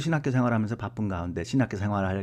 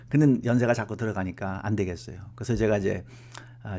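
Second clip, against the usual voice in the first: normal talking voice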